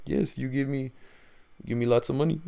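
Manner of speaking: badly faked Saudi accent, sheepish; Mohammed bin Salman. Saudi prince sheepishly answering Russian leader, badly faked Saudi accent. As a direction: attempt a Saudi accent and miss. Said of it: "I can't do Saudi accent".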